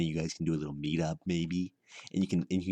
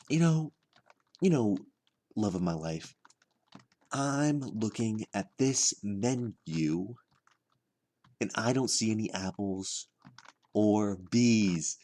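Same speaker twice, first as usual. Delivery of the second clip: drawn-out, higher mock pickup line; date opener; 3 semitones higher, slower than usual. Telling his imagined date a menu joke, hammed-up opener. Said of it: "start off really strong on this date".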